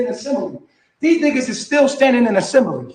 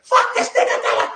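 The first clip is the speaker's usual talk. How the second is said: laughing mock quote; slower than usual. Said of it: "go wild out and just say".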